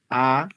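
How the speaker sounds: A held long and clear; vowel pronunciation demo. Shown as a demonstration. Teacher leading learners at home through the vowels, drawn-out A. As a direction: draw out an isolated A. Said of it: "quiero que pronuncies cada una de estas vocales".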